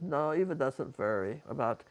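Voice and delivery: lightly imitated Bulgarian accent; Eva's Bulgarian accent. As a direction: quote the friend with a Bulgarian accent. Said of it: "I loved her accent".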